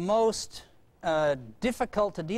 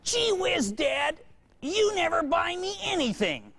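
put-on kid yelling; 11 semitones higher, slower than usual. Boy complains to dad at the top of his voice. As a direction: yell it across the store. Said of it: "at the top of his voice".

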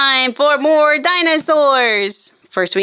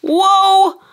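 amazed whoa; 5 semitones higher than usual. Real, not acted. Hostess amazed at the slime bottles, wide-eyed whoa. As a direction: marvel at what just appeared.

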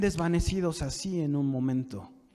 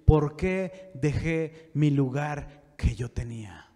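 understated lament; 2 semitones lower, slower than usual. Acted. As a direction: draw out the regret, mildly mournful. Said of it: "vas a llorar y vas a decir". (lamento contenido, lento y grave)

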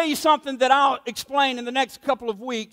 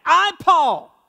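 emphatic; slower than usual. Retold or imitated. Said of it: "he's being emphatic".

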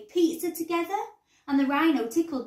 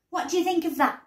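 higher, pleased question; grinning; 6 semitones higher, 4 dB louder, much faster than usual. A narrator's reading. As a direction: say it proudly through a grin. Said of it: "grinned Dad".

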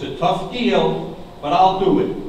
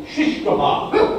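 tongue held with fingers, slurred; holding tongue with fingers; 9 semitones higher, slower than usual. Shown as a demonstration. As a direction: say it while holding your tongue. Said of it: "hold your tongue with your fingers".

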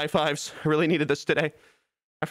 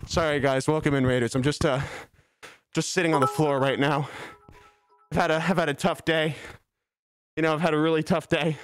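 low, mock-downcast voice; put-on dejection; 3 semitones lower than usual. Streamer greeting raiders mid-bit, put-on dejection. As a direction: play it glum and lower.

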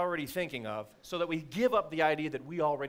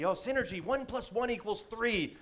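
mock buzzword tone; 7 semitones higher than usual. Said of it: "people talk about synergy".

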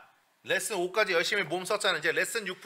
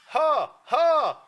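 higher, louder "하" from that spot; high ha demo; 8 semitones higher, 4 dB louder, much slower than usual. Shown as a demonstration. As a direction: punch "하" up high. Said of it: "그 위치 기억해". (높은 위치에서 힘있게 "하")

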